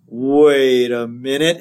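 slow, drawn-out "wait"; lightly voiced stuffy minister; a hint of a square preacher, very slow; square reverend. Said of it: "this is so square".

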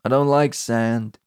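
slow, halting mock recital; Anakin impression. Podcaster acting out the sand line, slow mock-serious voice. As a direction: drag out each item, pausing between them. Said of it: "And then Anakin says".

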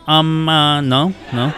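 Spanish mispronounced the way a gringo would; mock gringo accent. Mocking how American-born kids would call their mother. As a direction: tease how an American says mom in Spanish. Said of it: "no hablan así, ni dicen".

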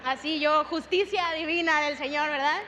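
loud, indignant cry for divine justice; annoyed outburst. Retold or imitated. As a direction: demand justice, half joking at her old self. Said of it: "pues obviamente estaba molesta". (indignada en broma, en voz alta)

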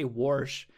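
wash said with an added r, warsh. Shown as a demonstration. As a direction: Midwest warsh with an r before sh. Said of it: "I used to say".

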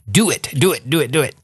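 lightly voiced sinister emperor; a hint of the evil emperor's hiss; Palpatine voice. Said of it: "not trying to sound like Senator Palpatine there from Star Wars".

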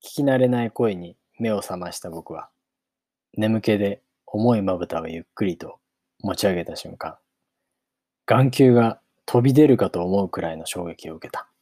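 measured audiobook reading with long pauses; story narration. A narrator's reading. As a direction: read it out as a storybook opening. Narrates the novel. (間を取った物語の朗読)

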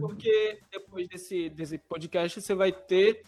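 talking while chewing; words round a bite of food; mouth full. Real, not acted. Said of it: "eu tô falando de boca cheia".

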